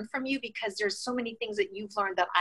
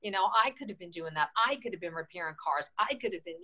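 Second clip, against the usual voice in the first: disappointed; 6 semitones lower than usual. Retold or imitated. Telling the interviewer about being passed over, low and deflated. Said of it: "I was very disappointed at the time".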